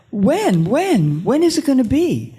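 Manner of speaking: rising, urgent repeated when; urgent pleading question. Retold or imitated. Woman chasing a psychic in her dream, pleading. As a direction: press the psychic for an answer.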